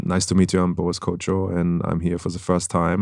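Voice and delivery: a light demo of a hard German accent; super hard German accent. Shown as a demonstration. Actor shows the hosts a thick German accent, lightly done. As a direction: introduce yourself in a heavy German accent, understated. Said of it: "so people talk like this".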